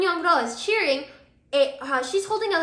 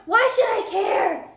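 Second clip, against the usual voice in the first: high, slow, scornful brush-off; dismissive; 9 semitones higher, 6 dB louder than usual. Retold or imitated. Hye-dong brushing off the accusing roommates, slow scornful. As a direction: drag it out, couldn't care less.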